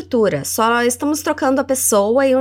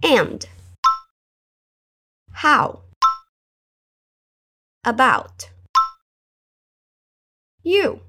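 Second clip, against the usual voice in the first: each word alone with long pauses; slow word by word drill; much slower than usual. Shown as a demonstration. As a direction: break it into single words, slowly. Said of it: "Vamos falar devagar?".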